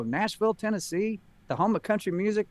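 stunned. Retold or imitated. People reacting to news about the country music business, stunned. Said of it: "people are always stunned when I say that".

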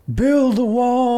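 co-host joining the bit about a singer; mock rock singer. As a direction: belt it out like a rally chant.

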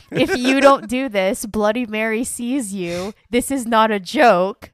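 lightly dramatized chain-letter warning; mildly ominous read-aloud. Retold or imitated. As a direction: read it out with a touch of mock threat. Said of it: "one of these chain letters that said".

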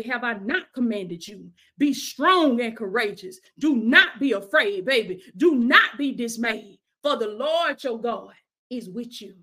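emphatic scripture declaration; commanding pulpit delivery; fervent preaching. Real, not acted. Preaches the verse once more.

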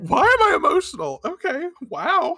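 high, fast, laughing at own tears; shaky giggle; overwhelmed and amused; emotional laugh. Real, not acted. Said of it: "High emotions".

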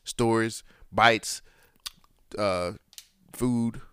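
news anchor voice. Shown as a demonstration. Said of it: "trying to say it in my news anchor voice".

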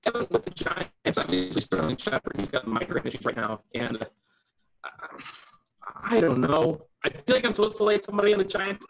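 glitchy robotic call audio; choppy digitally distorted robot voice. Real, not acted. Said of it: "You get the robot voice".

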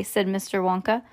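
usual speaking voice

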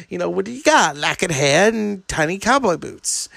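condescending mock Satan; lightly voiced scornful devil. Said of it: "Gary Oldman, he's just like".

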